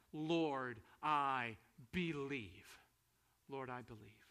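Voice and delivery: slow, low, sinking to a hush; solemn confession. Retold or imitated. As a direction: reverent low-voiced quote. Quotes confession, then softly echoes it.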